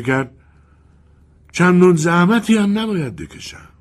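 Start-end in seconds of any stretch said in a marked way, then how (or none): 1.5-3.7 a scheming spirit, sly and menacing; sinister wind voice. Acted. The wind offers to kill the boy for the colonel, sinister.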